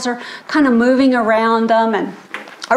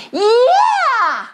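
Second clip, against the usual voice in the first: dad's shout; 12 semitones higher than usual. Retold or imitated. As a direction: whoop encouragement at the stage. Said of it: "her dad shouts again".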